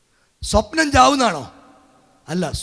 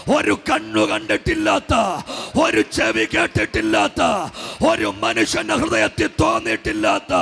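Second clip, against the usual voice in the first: driving, rhythmic prophetic declaration; fervent preaching. Real, not acted. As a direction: preach it in relentless waves, stretching phrase endings. Preaches a promise in rising chant.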